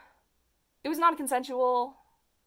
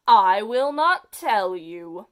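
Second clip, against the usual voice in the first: slow, louder defiant refusal; defiant villain; 9 dB louder, much slower than usual. Acted. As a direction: drag it out like a stubborn villain. Villain refuses reading childhood story.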